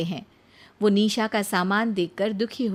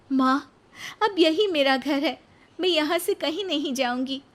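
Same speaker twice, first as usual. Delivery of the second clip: put-on higher, resolute young voice; determined Nisha; 7 semitones higher than usual. Nisha refusing to go with her mother, firm. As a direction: stand your ground gently.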